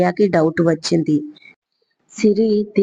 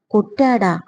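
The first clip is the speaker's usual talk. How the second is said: surprised; 4 semitones higher than usual. Acted. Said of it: "ఆశ్చర్యంగా నోరు తెరిచి".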